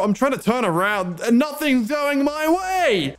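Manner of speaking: mock crying. Fleeing enemies, game going wrong.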